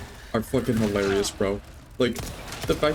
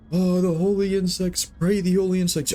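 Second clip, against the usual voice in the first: mock street preacher; 7 semitones higher than usual. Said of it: "someone's going like".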